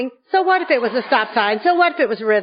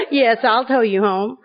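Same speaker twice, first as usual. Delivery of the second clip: sly agreement. Retold or imitated. Answering husband on phone.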